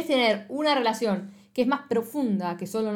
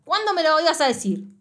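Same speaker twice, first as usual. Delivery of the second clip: mock reproach; 2 semitones higher, 5 dB louder than usual. Retelling Jiwon's jealous reproach.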